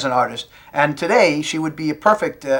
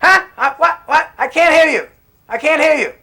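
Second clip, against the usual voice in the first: high, tinny long-distance shout; satellite phone delay; 10 semitones higher than usual. Acted. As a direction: strain to hear a bad line. Bad satellite link caller.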